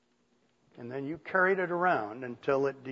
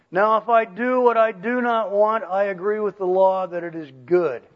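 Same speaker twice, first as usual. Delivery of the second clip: raised, louder reading voice; scripture reading; 3 semitones higher, 5 dB louder than usual. Real, not acted. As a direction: read the verse out high and firm. Reads scripture aloud.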